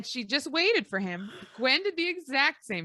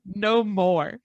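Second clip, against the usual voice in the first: mock scream; 6 dB louder than usual. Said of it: "She says".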